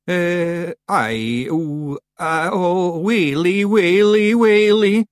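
moaning in dread. Acted. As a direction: build from hesitant noises to a loud moan. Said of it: "moaned Daft Willy".

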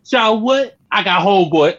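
mock reply. Friend acting out a movie comeback, mock-baffled. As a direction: play it as a cocky hero brushing off a threat. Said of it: "He's like".

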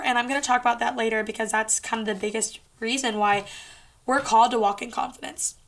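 talking around a sip of tea; words blurred by a sip of drink; drinking sweet tea. Real, not acted. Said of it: "Sorry, I'm drinking my sweet tea".

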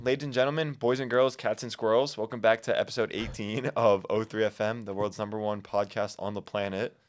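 big showman welcome; grand entrance announcement. Acted. Podcast intro announcement.

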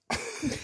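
soft breathy dinosaur roar; a quiet playful dinosaur call; dinosaur noise. Pretend. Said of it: "she's now doing a dinosaur impression".

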